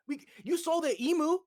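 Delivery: heated disbelief, rising pitch; excited. Real, not acted. Excited rant about the fight.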